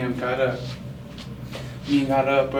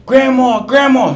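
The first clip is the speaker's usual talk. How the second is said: much higher, louder call across the house; 10 semitones higher, 11 dB louder, slower than usual. Retold or imitated. Uncle calling grandma for diaper help: loud high call. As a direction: holler for grandma.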